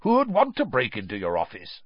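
growled challenge, emphatic; Moody. A narrator's reading. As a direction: growl the question suspiciously. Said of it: "growled Moody".

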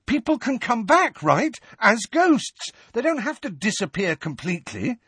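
cling to hope, pressing; hopeful urgent. Acted. Harry hoping urgently.

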